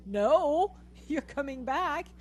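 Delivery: mock-stern calling back; firm retold command.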